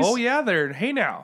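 playful fake-Canadian agreement; lilting mock Canadian; Canadian accent. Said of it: "maybe they're all Canadian".

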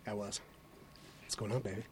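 soft seductive whisper; sweet nothings. Pretend. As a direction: murmur it in his ear. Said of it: "whispering sweet nothings in Scott Pierce's ear".

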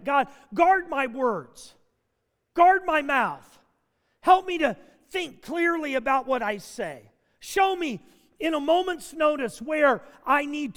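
measured, emphatic plea to God; earnest prayer. Shown as a demonstration. Pastor showing the congregation his daily morning prayer, earnest prayer. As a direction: pray it out in deliberate phrases. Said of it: "a prayer like that".

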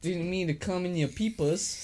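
comic British lad; proper British boy. Pretend. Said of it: "proper British boy".

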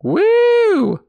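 high whooping cheer; excited cheer. Real, not acted. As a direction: whoop with delight. Host cheers after song.

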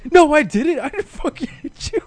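high, loud angry denial; mock furious shout at a liar; angry yell. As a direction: yell it back in outrage. Acted domestic dispute, Kratos denying.

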